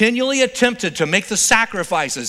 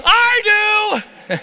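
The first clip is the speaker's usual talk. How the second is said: much higher, louder dry mom voice; knowing mom; 14 semitones higher, 5 dB louder than usual. Retold or imitated. Mom on the couch answering her son, high and knowing. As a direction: mom who already knows, pitched way up. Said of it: "And she goes".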